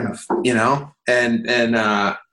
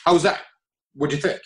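higher-pitched quick questions; imitated eager colleague; 4 semitones higher, faster than usual. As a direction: lightly mimic someone fishing for an opinion. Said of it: "someone's like".

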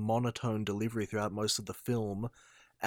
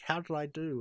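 creature voice; 6 semitones higher than usual. Retold or imitated. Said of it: "the symbiote's like".

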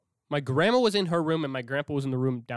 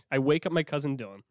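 ordinary talk, nothing marked

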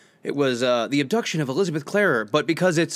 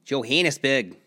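Johannesburg said with a South African accent, like "Zho-HAN-es-burg"; a light South African take on "Johannesburg"; 3 semitones lower, slower than usual. Shown as a demonstration. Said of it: "say it right with the South African accent".

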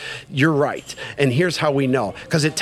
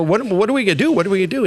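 higher, pleading retold panic; mock-desperate, pitched-up questioning; frantic plea; 5 semitones higher, much faster than usual. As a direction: beg your sponsor for answers. Retold plea to his sponsor.

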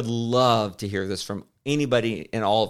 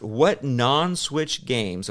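reading slowly; 2 semitones higher, much slower than usual. Retold or imitated. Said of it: "he asked".

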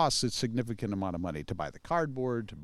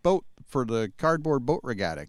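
put-on Chicago accent; 2 semitones higher than usual. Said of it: "'cause I talk like that back then".

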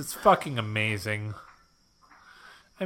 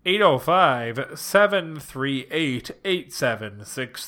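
digits read out slowly; reading the phone number slowly for listeners; slower than usual. Shown as a demonstration. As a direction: spell out each number slowly. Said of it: "reading the phone number".

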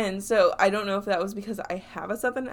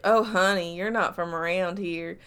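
put-on slipping into a light Southern accent. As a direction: quote it with a touch of Southern. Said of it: "that's a very Southern accent".

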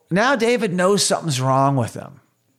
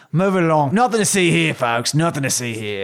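put-on British bobby accent. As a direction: wave the crowd on as a British bobby. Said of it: "Give me a better accent".

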